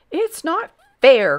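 put-on high, loud, drawn-out childish protest; indignant cry. A narrator's reading. Grand Duke out of arrows, indignant cry. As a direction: wail it like a thwarted boy. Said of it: "cried the Grand Duke".

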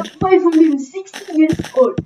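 voice changer. Acted. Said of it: "using a voice changer".

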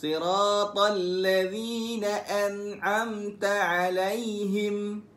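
slow melodic chanted recitation; Quran recitation. Shown as a demonstration. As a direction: recite in a slow tarannum line. Recitation demo. (bacaan al-Quran berlagu perlahan)

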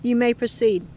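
lightly voiced emotionless soldier; a hint of a robotic monotone. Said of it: "said in a monotone voice".

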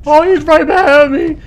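sudden loud frightened yelps; startled shouting, high and loud; panicking gamer. Real, not acted. Monster suddenly behind him.

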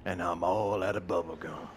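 lightly voiced action hero line; movie quote. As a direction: quote the tough guy line, half-serious. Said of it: "what's the word from that movie".

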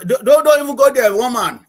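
mock exasperation. Real, not acted. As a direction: wave off the question with a big teasing protest. Playful retort to teasing question.

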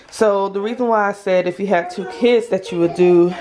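breathless, rushing the words; talking while short of breath. Real, not acted. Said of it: "sorry, I'm running out of breath".

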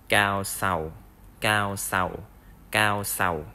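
"cao sầu" repeated with a falling tone; Vietnamese cao sầu. Shown as a demonstration. Teacher drilling the word for professor. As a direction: model "cao sầu" clearly for learners.

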